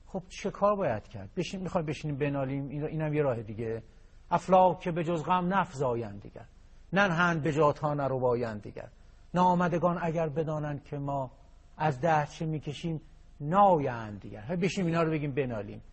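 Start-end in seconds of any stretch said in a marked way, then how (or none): 4.3-14.4 measured recital of a Persian quatrain; poem recital. Acted. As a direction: recite the verse with weight, line by line. (دکلمهٔ شعر)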